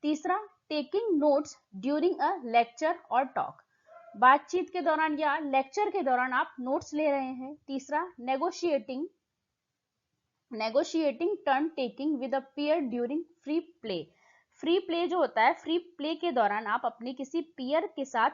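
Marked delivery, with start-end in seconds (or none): 0.7-3.5 slow, deliberate exam-question read. Acted. Teacher reading the question text slowly to students. Reads option aloud slowly. 8.2-14.0 slow, deliberate exam-question read. Acted. Teacher reading the question text slowly to students. Reads option aloud slowly.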